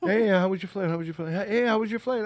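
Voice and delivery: high-pitched, put-on welcome; imitated greeters. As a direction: greet passengers in a mock chirpy high voice. Acting out the men greeting passengers.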